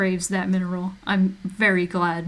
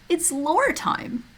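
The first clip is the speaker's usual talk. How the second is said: high and slow, softer; softer lore call; 9 semitones higher, much slower than usual. Shown as a demonstration. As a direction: croon it gently.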